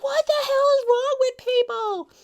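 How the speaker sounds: high, loud, fed-up cry; exasperated outburst. Retold or imitated. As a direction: blurt it out at the world in frustration. Son's frustrated outburst while driving.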